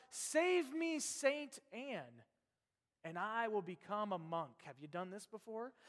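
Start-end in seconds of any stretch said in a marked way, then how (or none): 0.1-4.6 retold cry for help. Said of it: "his first inclination was to cry out".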